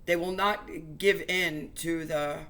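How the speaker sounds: choking up mid-sentence, can't finish; getting emotional. Real, not acted. Preacher to viewers, choking up with real emotion. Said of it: "no, I'm gonna get emotional".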